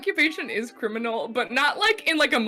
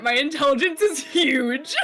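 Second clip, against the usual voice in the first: proud dim boast; 4 dB louder than usual. Acted. Player boasting in character.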